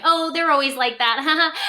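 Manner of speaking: breezy mock dismissal with a laugh; joking brush-off. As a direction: make light of it, then laugh. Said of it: "without using humor".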